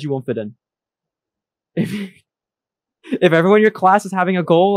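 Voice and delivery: deadpan fake accusation; mock serious. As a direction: pretend to scold her, straight-faced. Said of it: "I'm kidding".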